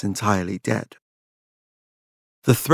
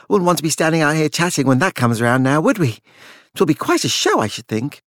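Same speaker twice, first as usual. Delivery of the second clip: higher, chatty put-on ease; empty chatter; 5 semitones higher than usual. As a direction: chatter on to hide unease. Charles's empty chatter, wary.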